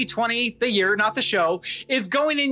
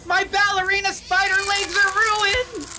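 high melodramatic lament; hammed-up anguish; 8 semitones higher than usual. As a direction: wail over ruined legs. Mock anguish over legs.

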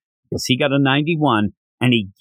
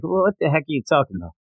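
exasperated dad; much faster than usual. Retold or imitated. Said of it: "I'd be like".

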